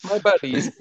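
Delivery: hammed-up tree calling out in dismay; mock yell. Game master acts out upset tree, mock yelling. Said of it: "he just yells".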